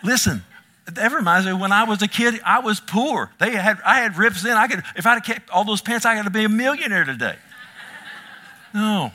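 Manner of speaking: high, loud laughing story. Real, not acted. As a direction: chuckle through the tale of torn pants. Laughing story of being poor.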